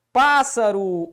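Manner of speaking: PÁSSARO slowly, first syllable PÁS held long; stretched stressed syllable. Shown as a demonstration. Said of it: "como é que se separa".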